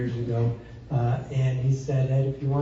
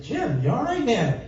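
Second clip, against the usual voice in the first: retold call; 8 semitones higher than usual. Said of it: "And I said".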